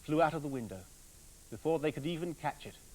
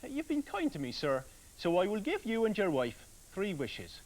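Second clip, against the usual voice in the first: tree man; 2 semitones higher than usual. Acted. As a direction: grant the wishes with a small solemn warning. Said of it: "he said".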